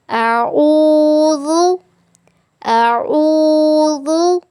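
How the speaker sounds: अऊज़ु with a soft, lisped zaal, tongue between the teeth. Shown as a demonstration. Teacher shows students the soft zaal in अऊज़ु. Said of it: "ज़ाल को जब हमने अदा करना है".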